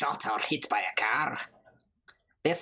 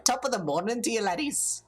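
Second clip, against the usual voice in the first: a bad, hammed-up Irish lilt, higher and laughing; mock Irish accent; 6 semitones higher, faster than usual. Gamer greeting the library ghosts in a mock Irish accent. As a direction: play the cheeky Irish greeter, badly. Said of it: "was that just terrible Scottish accenting".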